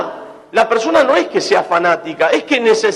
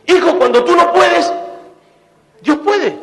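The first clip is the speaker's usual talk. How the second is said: mother calling son; 9 semitones higher than usual. Retold or imitated. Preacher voices a mother calling her little boy, raised sing-song call. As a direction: call it out like a mother across the house.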